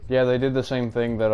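normal talking voice

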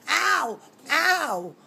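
loud, high yelps of pain. Real, not acted. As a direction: cry out as claws dig in. Kitten on her back.

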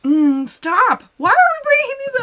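distressed whine. Real, not acted. Sad movie talk upsets her.

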